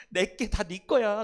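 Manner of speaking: slow, laughing fatherly reassurance; laughing fondly. Acted. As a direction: chuckle it out slowly to the son. 큰아들아. (웃으며 천천히 다정하게)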